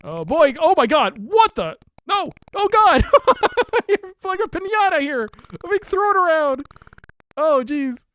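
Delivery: high, loud, frantic shrieks; frantic yelling. Real, not acted. Streamer yelling in panic as the cat gets thrown around. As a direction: shriek as you get tossed around.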